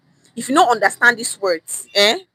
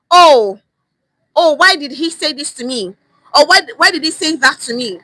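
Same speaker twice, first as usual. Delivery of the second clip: offended complaining; 3 semitones higher, 6 dB louder than usual. Pretend. Imagined offended listener complaining.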